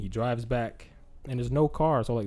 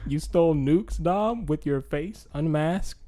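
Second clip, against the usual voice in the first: incredulous scolding; 6 semitones higher, 3 dB louder, slower than usual. Real, not acted. Teller scolding Dom.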